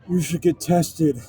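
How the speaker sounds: slow, halting mock movie-star voice; half-hearted impersonation, drawn out; bad Al Pacino. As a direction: deliver it slowly as a poor actor impersonation. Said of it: "such a bad Al Pacino accent".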